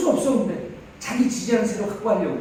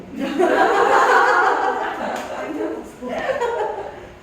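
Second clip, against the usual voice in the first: loud high burst of laughter; hearty laugh; 11 semitones higher, 4 dB louder than usual. Real, not acted. Speaker laughs at himself for watching the clock, loud laugh.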